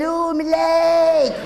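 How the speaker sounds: drawn-out mock moan of pain, slow; milk the pain slowly like a hurt budgie; slow whining oh, my leg.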